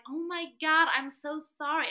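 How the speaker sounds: high, loud, gushing apology; flustered apology. Retold or imitated. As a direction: gush an embarrassed sorry. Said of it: "And they were like".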